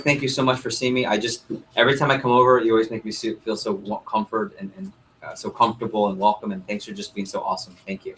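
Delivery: sincere thank you. Shown as a demonstration. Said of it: "genuinely thank them".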